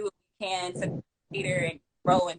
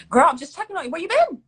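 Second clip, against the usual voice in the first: higher, louder caring friend checking in; imitating a friend's voice note; 8 semitones higher, 8 dB louder, faster than usual. Imitating a friend's voice message, higher and louder. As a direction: mimic her upbeat voice message. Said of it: "hit me up with the voice messages like".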